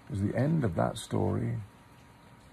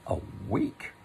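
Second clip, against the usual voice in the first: gloomy; 3 dB quieter than usual. Acted. Pooh hears he must wait a week, quietly gloomy. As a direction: sink at the bad news. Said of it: "said Pooh gloomily".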